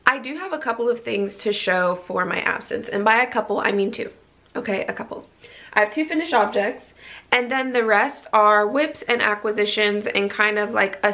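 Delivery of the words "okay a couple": soft whisper to herself; whispered aside. Real, not acted. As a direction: whisper it like a secret.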